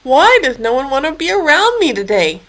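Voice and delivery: a touch of a mournful moan; lonely hippo, mildly moaning. Acted. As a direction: lament it lightly. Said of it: "Harold moaned".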